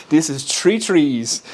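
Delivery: three said like tree, slow and deliberate; Irish accent, "three trees" both sounding like "tree". Shown as a demonstration. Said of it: "that's how I say it".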